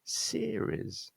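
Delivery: series stressed on SE, high and soft; first-syllable stress. Shown as a demonstration. Teacher modelling stress on series. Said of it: "stress is on the first syllable".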